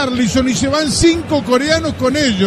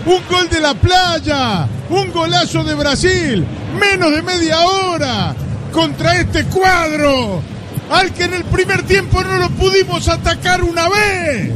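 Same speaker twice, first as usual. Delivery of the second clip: excited; 4 semitones higher than usual. Real, not acted. Co-commentator raves about goal.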